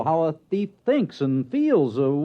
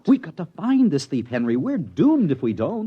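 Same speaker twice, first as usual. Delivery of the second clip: urgent alarm; 5 semitones higher, 3 dB louder than usual. Acted.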